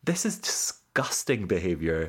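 slow, low disdain; a hint of prim disgust; lightly disapproving; mock indignant. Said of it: "I'm like".

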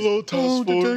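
high, slow creepy puppet voice; creepy horror villain greeting; Jigsaw puppet voice. Retold or imitated. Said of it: "There it is".

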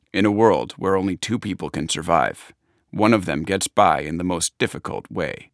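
low, dramatic trailer announcer; deep epic trailer narration; movie trailer voice. Retold or imitated. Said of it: "fake movie trailer voiceovers".

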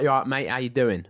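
put-on rough-and-ready Cockney accent; Cockney dad. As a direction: imitate a Cockney father's greeting. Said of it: "My dad's Cockney. So he speaks a bit like".

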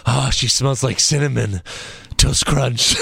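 lightly put-on villain wrestler voice; Fandango. Retelling a wrestler's interview about kissing her, mock villain. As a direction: imitate a creepy-suave bad-guy interview. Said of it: "Fandango talked when he was bad".

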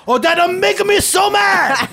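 put-on high, loud, slow Asian-accent caricature; hammed-up outrage, mock Asian accent; angry mock Asian accent. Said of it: "it's the one accent".

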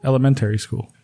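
"Elementary" said with an added r, like "elemen-terry"; "Elementary school" with a strong r in the middle; extra r sounds. Real, not acted. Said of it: "What the fuck?".

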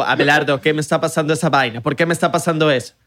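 imitating dad asking Abelardo what's going on; mock confused dad. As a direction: plead with Abelardo in disbelief. Father voiced reacting to video.

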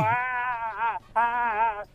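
llanto fingido, lento y sin fuerza; llanto imitado. Retold or imitated. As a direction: imita a un niño llorando con ayes alargados. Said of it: "que estaba llore, llore". (lloriqueo de mentiras)

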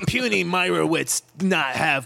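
dumb caveman Hulk talk. Pretend. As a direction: play Hulk, simple and blunt. Hulk voice bit.

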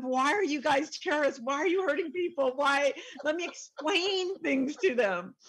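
high, earnest lecturing questions; wide-eyed do-gooder scolding, pitched high; naive pleading questions. Pretend. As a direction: plead with them like a naive peacemaker. Imagined lecture to terrorists.

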